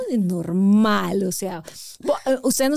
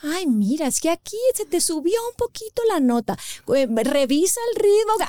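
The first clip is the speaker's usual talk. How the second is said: gentle producer voice; 5 semitones higher than usual. Retold or imitated. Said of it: "oigo como le dice".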